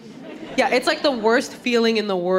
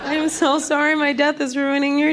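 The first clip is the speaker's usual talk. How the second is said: mock gratitude; 6 semitones higher, slower than usual. Patient won over by Southern nurse.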